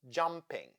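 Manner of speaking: JUMP-ing, first syllable of 'jumping' stressed; root stress. Shown as a demonstration. Teacher illustrating rule one, root stress on 'jumping'. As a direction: hit 'jump' in 'jumping', leave the suffix weak. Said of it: "we stress jump".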